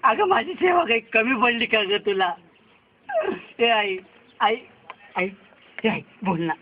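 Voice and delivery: tearful lament. Acted. Son grieving over mother's body.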